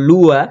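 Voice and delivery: লুয়া with the final "wa" cut short; don't stretch the last vowel of লুয়া; quick short vowel. Shown as a demonstration. Teacher showing the class, quick short "wa" in লুয়া. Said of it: "তাড়াতাড়ি পড়বো".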